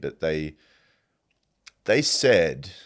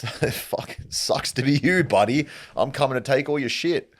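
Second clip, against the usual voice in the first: loud, higher mocking jeer; gloating conqueror; 7 semitones higher, 4 dB louder than usual. The victor jeering at his broke opponent, loud and mocking. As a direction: sneer at the loser as you come to plunder. Conqueror keeps taunting the loser.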